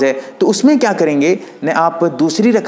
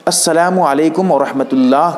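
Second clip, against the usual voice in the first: demonstrated prayer salam. Shown as a demonstration. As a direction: show how the closing salam is recited. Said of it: "कहते हुए इस तरह".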